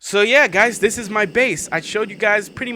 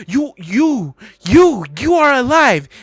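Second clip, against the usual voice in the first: louder, higher declaration; dramatic exclamation; 6 semitones higher, 5 dB louder, slower than usual. Acted. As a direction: proclaim it like a revelation. Climax of poem reading.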